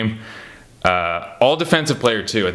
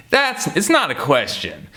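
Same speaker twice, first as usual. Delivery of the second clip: higher, slow mock protest; mock objection; 5 semitones higher than usual. Viewer answering a reporter's rambling question, mock objection. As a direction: object with drawn-out exasperation.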